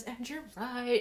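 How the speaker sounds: soft, gloating taunt; mock amused confession. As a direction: lean in and taunt him lightly. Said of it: "taunting him like it's funny".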